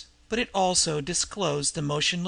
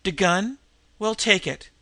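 a higher, louder scornful offer; mocking; 3 semitones higher, 5 dB louder than usual. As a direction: toss the gun off with contempt. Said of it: "with sudden mockery".

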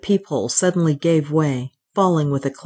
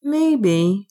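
gentle, drawn-out reply, pitched higher; soft; 4 semitones higher than usual. A narrator's reading. Mick responding to Ralph's thoughts of home, softly. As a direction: answer gently in a raised voice. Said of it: "Mick said softly".

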